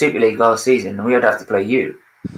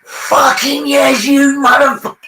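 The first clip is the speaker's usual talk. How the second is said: high, slow triumphant roar; celebrating a goal in a derby; mock wild celebration; 11 semitones higher, slower than usual. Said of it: "I was literally like".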